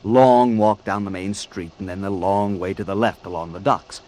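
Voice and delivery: calm retelling in the first person; story narration. A narrator's reading. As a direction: tell it like a radio story, steadily.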